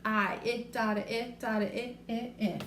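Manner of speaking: "it" repeated, short i stressed; sounding out short i. Shown as a demonstration. Teacher sounding out "it" for children, rhythmic. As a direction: tap out the short i in "it" for kids. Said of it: "that short".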